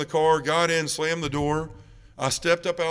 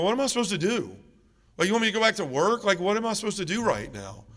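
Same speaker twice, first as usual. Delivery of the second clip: higher, exasperated questioning; helpless bewilderment; 5 semitones higher than usual. Retold or imitated. Son at parents' car asking what to do, retold helpless bewilderment. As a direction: act out a lost son demanding direction.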